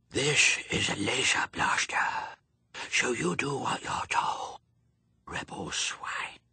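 breathy, hoarse, nasal masked-villain whisper. Pepper says what she'd say as an alien, in a hoarse nasal masked villain voice. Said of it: "Her voice became hoarse and nasal".

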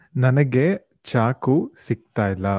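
normal talking voice

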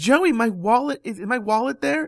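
mock high shout, projected far. Retelling how the mom called out across a parking lot: imitating mom shouting. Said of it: "shouting across the parking lot".

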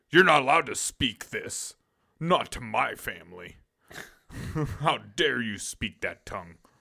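bossy, domineering tyrant voice. Mocking a poster who bans his partner from japanese: mock dictator voice. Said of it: "the fucking dictator of the relationship".

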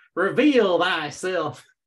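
put-on accent of the American south. Quoting a character who talks like a medieval person: Sandy with Southern accent, medieval speech. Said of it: "she still has her Southern accent, but she's talking like a medieval person".

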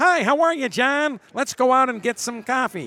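hard Michigan or Western New York accent, a bit high. Describing an accent the speaker says they don't have: hard Michigan, Western New York accent. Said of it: "that hard, like, Michigan, Western New York accent".

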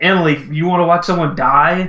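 half-hearted, mild yell. Retelling yelling to his wife from the couch: imitating own past yelling. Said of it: "just yelling at my wife".

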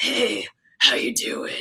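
slow, creepy, sidling-up come-on voice. Imitating the voice model for a character coming up to someone, in Chris's creeper voice. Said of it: "it's like his creeper voice".

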